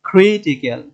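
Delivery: ক্রিটিক্যাল with ক্রি punched, the rest falling; teacher's front-stressed ক্রিটিক্যাল. Shown as a demonstration. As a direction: hit ক্রি first in ক্রিটিক্যাল. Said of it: "ক্রি, তিন নাম্বারে এসে আমাদের".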